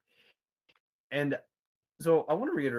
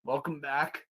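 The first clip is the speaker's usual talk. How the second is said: drow voice; 4 dB quieter than usual. Acted. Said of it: "says to you in the drow's voice".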